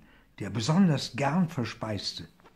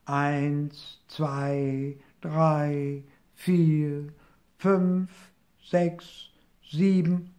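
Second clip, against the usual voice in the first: higher, rising count step by step; counting aloud; 4 semitones higher, much slower than usual. A narrator's reading. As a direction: count the backs as you hop. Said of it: "Und dabei zählte er". (hohes, hüpfendes Zählen)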